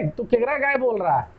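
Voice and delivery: lightly voiced village Bhojpuri speaker asking; rustic Bhojpuri dialect. Student teasing a friend in a Bhojpuri village accent. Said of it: "तो उसको बोले".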